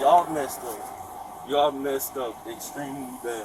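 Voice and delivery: drawn-out, weighty reproach; slow insistent telling-off; slow, emphatic warning. Real, not acted. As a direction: stretch the words out to warn them. Warning officers they made a mistake.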